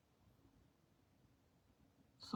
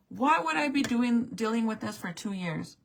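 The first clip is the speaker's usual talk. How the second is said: exasperated question; 3 semitones higher than usual. Real, not acted. Angry rhetorical question to staff.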